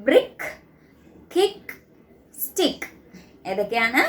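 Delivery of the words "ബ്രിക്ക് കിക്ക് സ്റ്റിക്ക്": ബ്രിക്ക് കിക്ക് സ്റ്റിക്ക് said high and clear, each word set apart; teacher modelling words. Shown as a demonstration. Teacher models words for first graders, high and clear. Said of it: "ഇനി next set of words ആണ്".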